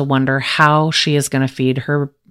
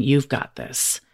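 right in your ear; 2 semitones lower, 6 dB quieter than usual. Pretend. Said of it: "I want you to hear my voice in your ear".

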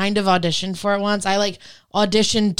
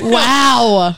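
surprised; 6 dB louder than usual. Real, not acted. Loud reaction.

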